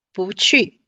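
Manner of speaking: 不去 with 不 rising, 去 falling; bú qù demo. Shown as a demonstration. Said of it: "去四声".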